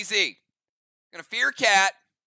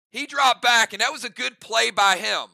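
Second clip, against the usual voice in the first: imitating Phil Simms; 2 semitones higher than usual. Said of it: "He always says".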